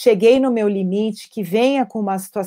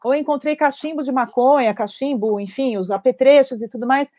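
lightly voiced anxious parent; scared parent; 3 semitones higher than usual. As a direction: imitate a frightened parent. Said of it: "com medo".

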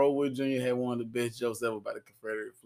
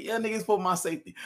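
sarcastic comeback; 9 semitones higher, 3 dB louder, faster than usual. Retold or imitated. Sarcastic retort to flag defenders.

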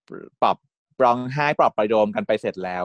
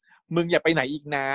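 slow, higher pleading; tearful plea; 4 semitones higher, slower than usual. Retold or imitated. Kan begging Tin to stay, slow tearful plea. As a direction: beg him not to leave again. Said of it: "แคนก็บอกว่า".

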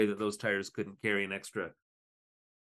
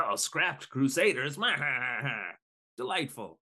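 Penguin gloating; 3 semitones higher than usual. Retold or imitated. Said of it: "It's like".

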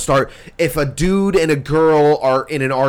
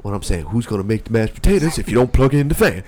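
mock nonsense riddle; 4 semitones lower, faster than usual. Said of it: "if you're gonna say the thing right".

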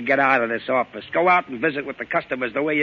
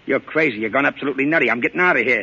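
louder, agitated protest; alarmed protest; 5 dB louder, faster than usual. Acted. Joe refusing to drive to the party, alarmed. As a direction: push back in a panic.

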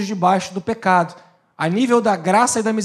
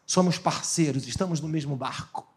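the enemy speaking; 4 semitones lower, 4 dB quieter than usual. Retold or imitated. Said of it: "ele propõe ajuda e ele fala".

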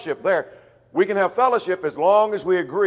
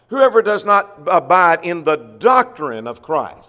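preaching emphasis; 6 dB louder than usual. Real, not acted. Preacher stresses the key verse.

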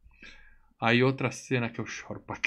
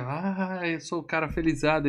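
lightly acted, higher-pitched happy cry; mock elation; 4 semitones higher than usual. Podcaster playing the hero waking up overjoyed, mock elation.

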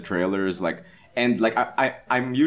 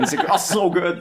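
ordinary talk

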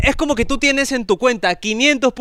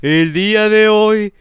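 slow, solemn mock sermon; mock priest. Host plays a priest opening a joke mass, slow and solemn. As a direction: open the mass gravely, slowly.

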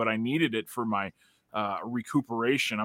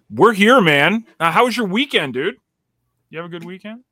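excited; 7 semitones higher, 7 dB louder than usual. Real, not acted. Excited hello to co-host.

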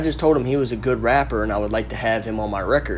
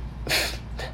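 quick laugh; 7 dB quieter than usual. Real, not acted. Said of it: "that made me laugh".

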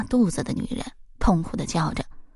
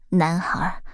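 gentle. A narrator's reading. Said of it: "女人温柔地说".

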